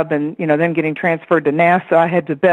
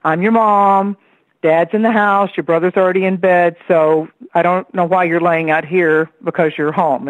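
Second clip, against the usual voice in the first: put-on talking to a child. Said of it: "You know how you'll address a kid".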